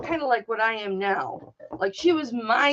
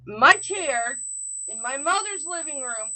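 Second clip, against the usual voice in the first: getting pissy; 3 semitones higher than usual. Real, not acted. Woman telling of bully in mother's house, getting pissy. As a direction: let real annoyance creep in. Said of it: "Can you hear I'm getting kind of pissy".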